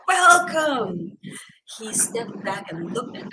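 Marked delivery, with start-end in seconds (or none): 0.1-1.2 high, louder cry of welcome; joyful welcome. Shown as a demonstration. Translating the greeting for listeners, loud joyful welcome. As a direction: call it out like a glad host. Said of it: "Akwaaba means welcome".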